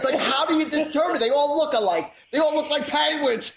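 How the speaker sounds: high-pitched, amused incredulity through laughter; real laughing. Real, not acted. Host joking about identical penguins, laughing as he talks. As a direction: crack up while asking, voice climbing.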